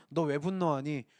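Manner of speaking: low, mild, understanding question. Acted. God asking Cain about his anger, understanding. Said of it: "너의 마음을 어떻게 보면 약간 이해한다라고도".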